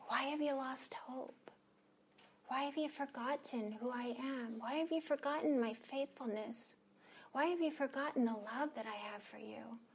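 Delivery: soft, hushed, pleading questions; quiet, intimate reproach; tender questioning. Acted. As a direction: gently grieve over someone who forgot. Voicing God's sad, tender questions.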